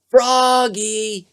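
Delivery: mother calls her son, high and drawn out; a call from another room. A narrator's reading. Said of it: "called his mother".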